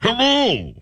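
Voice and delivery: muffled Bane voice behind a hand; hand over mouth. Acted. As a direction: speak into your cupped hand. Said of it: "literally just you with your hand over your mouth".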